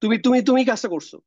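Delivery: high, loud insistent repeated তুমি; emphatic repetition. Retold or imitated. Teacher acting a confronted person, insistent repeated তুমি. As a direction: hammer তুমি three times in disbelief. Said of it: "সে এত তিনবার বলতে গেল কেন".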